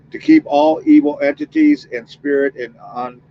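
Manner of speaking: steady spoken prayer, calling on the Lord. Acted. Medium praying for protection before the spirit session, earnest and even.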